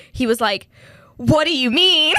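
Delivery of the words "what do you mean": a hammed-up wail, higher and louder; mock distraught. The scammer whining after being told he's no longer needed, mock crying. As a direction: play the scammer pretending to be heartbroken.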